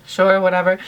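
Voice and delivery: imitated offhand agreement; retold indifference. Celebrity agreeing to a fan's photo, imitated indifference. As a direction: shrug it off as he did. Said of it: "kind of didn't really care".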